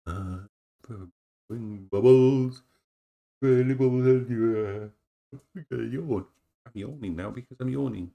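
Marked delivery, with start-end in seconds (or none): 1.5-4.9 playful bubbles. Real, not acted. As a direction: stretch it out with delight. Playful exclamation.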